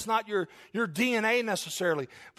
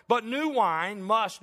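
"new" stressed in a slow, deliberate reading; 3 semitones higher, 3 dB louder, much slower than usual. Shown as a demonstration. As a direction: lean hard on the word "new", taking it slowly. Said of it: "notice the emphasis of the word new".

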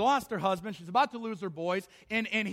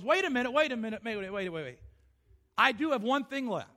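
sudden realization; 2 semitones higher than usual. Acted. Widow realizes she has something.

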